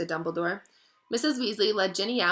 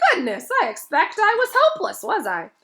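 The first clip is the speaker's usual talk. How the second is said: dazed Lockhart; 9 semitones higher, 7 dB louder than usual. Acted.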